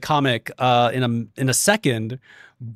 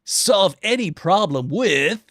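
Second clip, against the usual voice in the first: mock ad announcer; 3 semitones higher than usual. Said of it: "you hear off screen".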